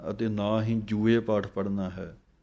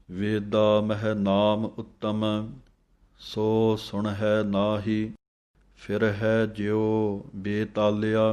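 slow, drawn-out Gurbani reading; scripture recitation; much slower than usual. Shown as a demonstration. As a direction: recite it slowly, lengthening each long vowel. (ਠਹਿਰਾ ਨਾਲ ਗੁਰਬਾਣੀ ਪਾਠ)

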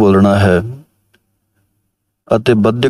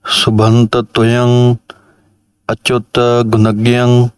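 slow, measured recital of the verse; slow scripture recitation. Shown as a demonstration. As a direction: chant each word slowly and with care. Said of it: "ਇਸ ਤਰ੍ਹਾਂ ਪਹਿਲੀ ਪੰਕਤੀ ਆਪ ਜੀ ਨੇ ਸ਼ਰਵਣ ਕੀਤੀ". (ਹੌਲੀ ਹੌਲੀ ਗੁਰਬਾਣੀ ਪਾਠ)

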